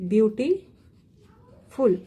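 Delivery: "beautiful" very slow, long gap before ful; syllable by syllable. Shown as a demonstration. Teacher showing three syllables to the class, "beautiful" slowly pulled apart. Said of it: "here we are having three syllable".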